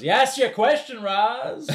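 hammed-up high smug reply to Roz; high nerdy voice. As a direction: lift it high like a triumphant geek. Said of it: "he goes".

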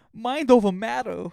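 hyped gym mantra shouted out. Shown as a demonstration. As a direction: bark the mantra like a coach. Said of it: "repeated mantra".

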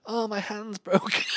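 high mock pained cry; hammed-up hurt voice; fake wounded cry. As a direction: play up the injury for sympathy. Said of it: "I went".

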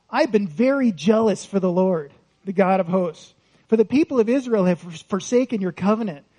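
a mild whine pointing fingers; whiny complaint. Acted. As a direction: play Elijah whining about everyone else. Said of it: "Whine, right?".

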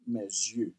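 mes yeux, linked as mez-yeux; French for my eyes. Shown as a demonstration. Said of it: "In French".

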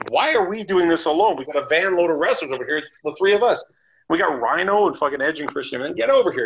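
re-enacted impatient holler; exasperated calling out. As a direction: call the others over, fed up. Retold calling wrestlers over to help.

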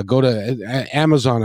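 ordinary delivery

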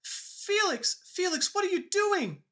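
put-on high, frantic girl's cry to a friend gone wrong; frightened plea. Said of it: "and she says".

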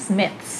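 "Smiths" ending in th then a hissed s; careful final cluster. Shown as a demonstration. Teacher demonstrates the hard ending, "Smiths" with th gliding into s. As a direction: sound out both end consonants of "Smiths". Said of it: "มันจะอย่างงี้".

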